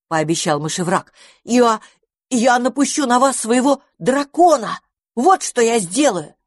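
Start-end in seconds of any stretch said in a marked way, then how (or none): 1.4-6.3 boastful threat. A narrator's reading. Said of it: "пообещал он".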